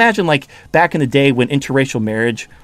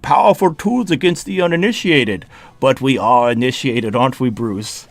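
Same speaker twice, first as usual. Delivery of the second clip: put-on villain voice, dropping lower as it goes; Bane; 3 semitones lower than usual. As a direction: do a menacing movie-villain impression. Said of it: "like, a Bane impression".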